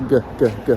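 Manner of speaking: G said with the larynx pushed down; depressed larynx on G. Shown as a demonstration. G sounds from a pushed-down throat while demonstrating. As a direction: press the larynx down on each G. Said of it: "I'm depressing the larynx when I do that".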